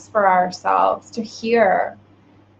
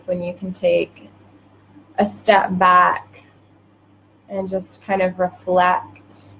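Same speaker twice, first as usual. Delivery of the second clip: measured meditation voice with long pauses; guided meditation. Acted. Host guides listeners into reflection, meditative. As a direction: guide them gently inward, unhurried.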